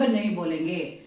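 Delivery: "numb" said as "नम", no b sound at the end; silent b in numb. Shown as a demonstration. Teacher showing the learner how to say "नम" without the b. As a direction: say "नम" with the b dropped. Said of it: "बी का यहाँ पर आप pronounce नहीं करेंगे".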